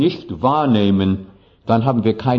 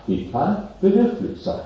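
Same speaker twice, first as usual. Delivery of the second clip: Death speaking; 9 semitones higher than usual. Acted. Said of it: "der Tod ... sagt".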